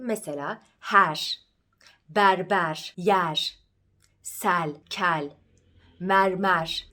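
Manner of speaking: broad back E, mouth open on "pervaz"; open E demo. Shown as a demonstration. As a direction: open E from the back of the palate in "her", "berber", "mermer". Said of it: "Açık E'ye başka örnekler verelim".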